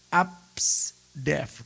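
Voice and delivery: Absdef as one word, apsdef; spelled-out name. Shown as a demonstration. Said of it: "A sampai F tuh bacanya Absdef".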